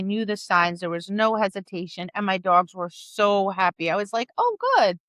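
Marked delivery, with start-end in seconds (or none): 4.4-5.0 pleased relief. Retold or imitated. Relieved at happy dogs.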